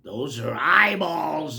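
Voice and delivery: loud, slow, spooky reveal; stretched-out gleeful cry; mild cackling cry. Acted. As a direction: announce it with wicked relish. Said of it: "cries with a cackle".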